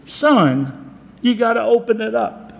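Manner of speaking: a dad gently teasing his son; dad's exasperated advice. Retold or imitated. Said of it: "his dad said to him".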